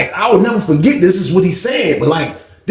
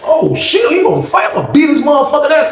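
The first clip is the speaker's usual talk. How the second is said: hyped fight alarm; 9 semitones higher than usual. Retold or imitated. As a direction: shout it like the fight's coming to you. Bracing for a fight.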